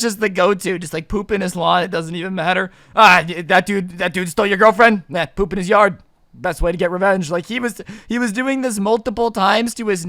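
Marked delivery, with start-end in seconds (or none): 2.9-7.3 loud, hammed-up neighborhood troublemaker; cocky friend impression. Friend touting lawn revenge, loud and mock-casual. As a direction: play the pal casually egging someone on.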